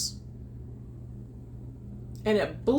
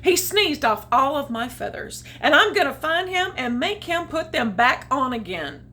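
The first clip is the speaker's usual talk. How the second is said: indignant goose; 4 semitones higher, 4 dB louder than usual. Acted.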